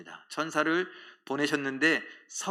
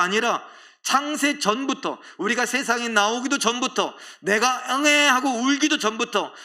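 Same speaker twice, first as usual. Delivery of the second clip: rising, louder sermon build, line after line; fervent preaching; 6 semitones higher, 4 dB louder than usual. Acted. Pastor stirs the congregation with a building sermon climax. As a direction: preach it with mounting fervour.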